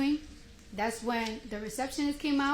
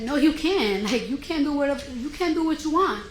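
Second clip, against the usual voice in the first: raised, louder voice telling her off; retold argument; 3 semitones higher, 4 dB louder than usual. To the security guard, firmly arguing in a raised voice. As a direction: push back hard and loud. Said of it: "that's when we started arguing".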